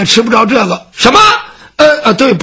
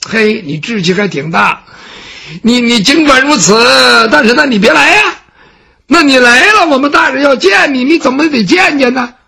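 a lightly voiced servant, higher and exasperated; indignant servant; 3 semitones higher than usual. Baoxing scolds the scholar for refusing, exasperated. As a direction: scold him for putting on airs.

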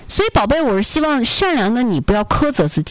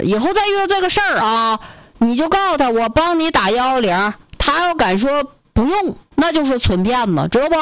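put-on higher, advising Northeast accent; 5 semitones higher than usual. Northeast brother advises the student about scammers, in Northeast accent. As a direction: give firm advice in Northeast accent. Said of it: "操着一口这个东北口音的大哥".

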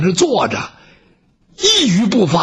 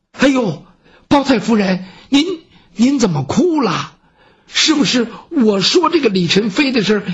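a hint of a gentle noble lady asking with concern; mildly voiced consort, coaxing and curious; lightly voiced consoling consort. 狄王妃劝慰哭泣的李娘娘. (略带关切的王妃语气，轻声劝问)

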